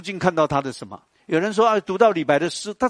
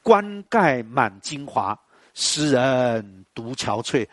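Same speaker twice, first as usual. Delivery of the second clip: very slow, each word weighed like reciting verse; slow poem recitation; much slower than usual. Shown as a demonstration. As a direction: intone the couplet slowly, with feeling. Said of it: "说了一句话". (缓慢吟诵诗句)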